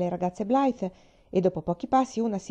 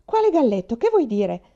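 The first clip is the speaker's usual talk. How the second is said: sharp, high, loud sudden alarm; alarmed exclamation; 5 semitones higher, 7 dB louder than usual. A narrator's reading. Faith asks Mary about the rooster, suddenly alarmed. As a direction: blurt it out as dread hits. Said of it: "esclamò Faith facendosi pallida".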